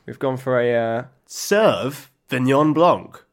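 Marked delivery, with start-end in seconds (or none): 1.3-3.2 Sauvignon drawn out slowly as "SERVE-vignon"; punning reveal. Shown as a demonstration. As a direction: stretch the first syllable of Sauvignon into "serve", then pause before "-vignon Blanc". Sets up wine pun, drawn out.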